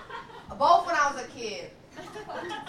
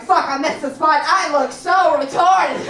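louder, slow mock shout; mock panic; 3 semitones higher, 10 dB louder than usual. At the doctor's, noticing a missed spot, mock loud groan. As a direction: groan at your own mistake. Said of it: "you're like".

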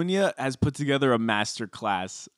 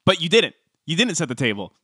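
passive aggressive; 2 semitones higher than usual. Retold or imitated. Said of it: "then Ramona goes".

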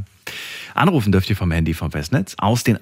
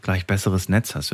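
choppy, breaking-up phone line; frozen video call. Real, not acted. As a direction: talk through a failing connection. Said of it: "Die Verbindung ist weg".

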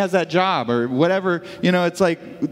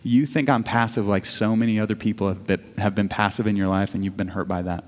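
gentle retold reply; 8 semitones lower than usual. God names the wife's past hurt, tenderly.

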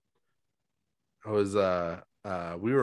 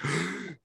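sharp gasp for air, pitched up; retold waking gasp; 8 semitones higher, 4 dB quieter than usual. Telling friends about waking from a nightmare, imitating a startled gasp. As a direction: suck in air like waking from drowning. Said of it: "it was like".

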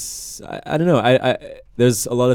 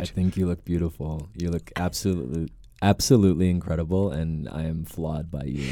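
put-on a soft, lower American accent compliment; 4 semitones lower, 4 dB quieter than usual. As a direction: flatter her in an American accent. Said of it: "Tell me how pretty I am in American accent".

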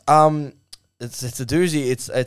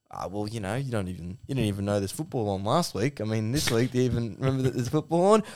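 lower, softer easygoing Aussie mate; Gary; 4 semitones lower, 5 dB quieter than usual. Acted. Gary answers Duck's worries about the sack, low and placid. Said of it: "the Gary voice is".

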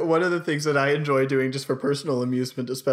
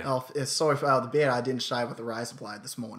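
put-on feigned Australian accent; 3 dB quieter than usual. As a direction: slip lightly into Australian. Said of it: "I'm feigning this Australian accent".

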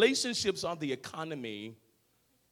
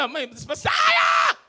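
imitated crowd yelling; 8 dB louder than usual. Preacher voicing the crowd hailing Jesus, high mock yell. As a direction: cry it out like an adoring crowd. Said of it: "They were yelling".

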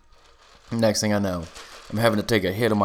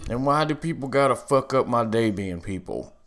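burp breaking through the words; burping after fizzy drink; 3 semitones higher than usual. Real, not acted. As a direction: talk through a soda burp. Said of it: "Oh, excuse me".

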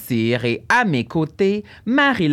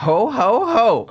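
Santa ho ho ho; 9 semitones higher, 4 dB louder, slower than usual. Pretend. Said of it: "qu'est-ce qui rime en haut".

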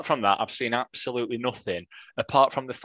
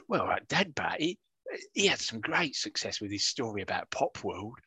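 lightly put-on Cockney voice; a hint of Cockney, half-hearted; Cockney accent. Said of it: "That was me trying to do a Cockney accent".

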